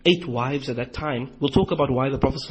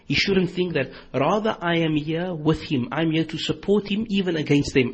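a retold, moderately louder call at the door; speaking loudly; 3 semitones higher, 3 dB louder than usual. Umar calling past the door guard so the Prophet hears, moderately loud. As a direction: call out so he is heard inside, without shouting. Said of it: "Sayyidina Umar speaks loudly".

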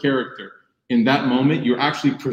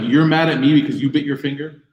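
exasperated dad; 5 semitones higher, 3 dB louder than usual. Retold or imitated. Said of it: "that's what I'm thinking".

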